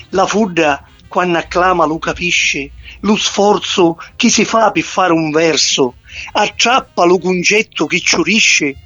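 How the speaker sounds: poem recited in Sicilian dialect. Acted. (poesia recitata in dialetto siciliano)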